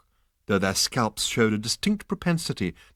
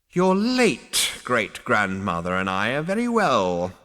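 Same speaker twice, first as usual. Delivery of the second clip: slow, raspy ancient voice; rasping old ghost. Acted. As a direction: rasp it out coldly. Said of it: "rasped Zaphod Beeblebrox the fourth".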